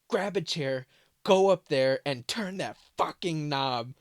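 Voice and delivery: imitating mom commanding in a panic; bossy frantic mom. Imitating mom ordering her son onto the chair, frantic.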